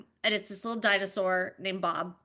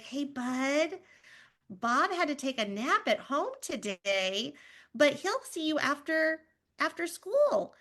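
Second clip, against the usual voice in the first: gentle, coaxing, rising a little higher; soothing mom voice; 4 semitones higher than usual. Retold or imitated. Mom gently soothing her toddler about Bob. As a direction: soften it like calming a toddler. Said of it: "And I was like".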